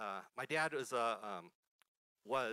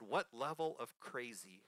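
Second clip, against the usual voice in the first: Clint Eastwood. Retold or imitated. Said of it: "through clenched teeth in Clint Eastwood style".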